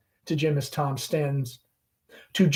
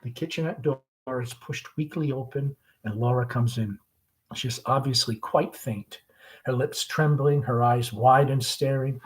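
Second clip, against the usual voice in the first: stage direction narration; 3 dB louder than usual. A narrator's reading.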